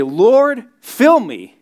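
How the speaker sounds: high, loud cry of Lord; pleading cry. Acted. Preacher acting a churchgoer crying out to God, high and loud.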